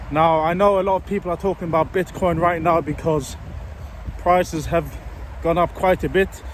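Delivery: breathless from walking uphill; talking while winded; out of breath. Real, not acted. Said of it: "sorry if I sound a bit out of breath".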